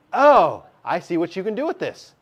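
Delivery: mock student's aha moment, high "Oh"; sudden realisation. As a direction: act out the penny dropping. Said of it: "before you go".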